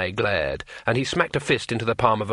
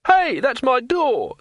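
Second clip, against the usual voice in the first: much higher, loud outraged yell; scream; 13 semitones higher, 4 dB louder, slower than usual. A narrator's reading. Innkeeper yelling as his door slams open, outraged. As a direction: bellow at the broken door. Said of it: "screamed Broadman".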